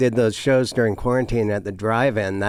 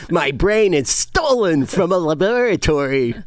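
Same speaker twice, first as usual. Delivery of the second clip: hammed-up mad scientist character, slightly raised; nerdy professor scientist; 4 semitones higher than usual. Guest shows one of his characters, nerdy professor voice. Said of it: "It's one of my characters".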